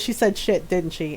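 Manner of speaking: knowing low. Retold or imitated. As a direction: say it like you already know. Grandmother guessing knowingly.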